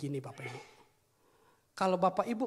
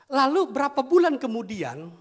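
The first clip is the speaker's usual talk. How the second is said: raised storytelling; 10 semitones higher, 10 dB louder than usual. Real, not acted. Preacher building the story.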